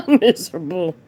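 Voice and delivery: laughing at her; scoffing laugh with a squeak. Real, not acted. Mocking laugh at her complaint.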